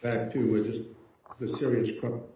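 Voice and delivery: audio dropping out mid-phrase; bad connection, words cutting out; choppy cut off endings. Real, not acted. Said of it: "Judge Amber, you're cutting out".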